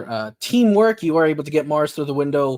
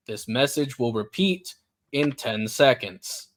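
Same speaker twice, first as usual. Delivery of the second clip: robot voice. Acted. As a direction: deliver it like a robot over a PA. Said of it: "a robotic voice, uh, rings out".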